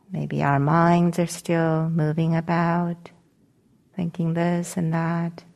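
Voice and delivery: calm meditation guidance with long pauses; guided meditation. Acted. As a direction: gently guide them into settling, leaving long silences between phrases.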